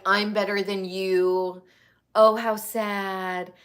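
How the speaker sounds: slow condescending mock pity; smug mock pity. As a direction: lightly voice a smug parent. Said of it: "this bizarro, like".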